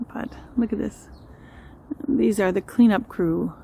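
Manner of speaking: usual speaking voice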